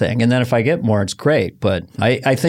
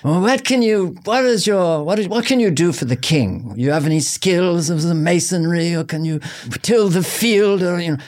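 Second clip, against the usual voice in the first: lightly voiced, higher questioning official; medieval official; 4 semitones higher than usual. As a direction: quiz him about his skills for the king. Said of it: "the year twelve hundred in London".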